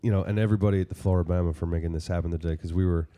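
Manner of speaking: stuffed-up nose from a sinus infection; nose pinched. Real, not acted. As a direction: talk through a blocked nose. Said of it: "I sound like I have a, a clothespin on my nose".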